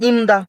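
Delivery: ইমদা as joined im-da; pronunciation demo. Shown as a demonstration. Teacher answering how it is pronounced, demonstrating ইমদা as im-da. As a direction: say ইমদা with the m running into da. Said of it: "তাহলে কি উচ্চারণ হবে?".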